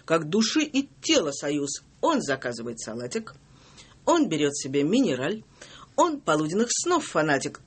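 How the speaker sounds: reciting verse in rhythm; poem reading. Acted. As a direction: read it like a poem. Reads her poem.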